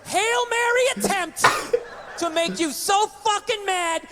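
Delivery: words broken up by laughter; giggling as the bit escalates; laughing through words. Real, not acted. Telling the joke and laughing at his own punchline.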